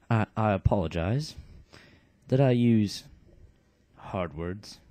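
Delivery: put-on light British accent. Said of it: "Canius is gonna have the British accent".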